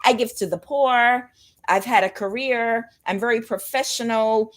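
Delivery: mocking covert sociopath. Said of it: "This is going to be a covert sociopath".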